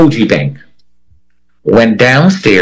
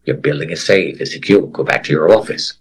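intercom announcement; 6 semitones lower, 5 dB quieter than usual. Retold or imitated. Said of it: "over and over and over".

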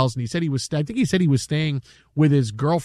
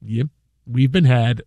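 lower, calm and wry; wry resignation; 6 semitones lower, slower than usual. Retold or imitated. Anchor calmly conceding to viewers. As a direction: accept the prank with a smile. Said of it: "the smile just".

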